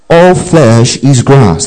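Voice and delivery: slow, measured group recitation; slow call to recite in unison; recited together. Shown as a demonstration. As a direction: lead the room in saying it slowly. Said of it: "Let's say that together".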